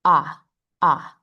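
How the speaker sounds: open, echoing "Ah" with the jaw dropped; "Ah" as the O in octopus; O sound. Shown as a demonstration. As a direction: say "Ah" short and open from the back of the throat. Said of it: "now for the O sound".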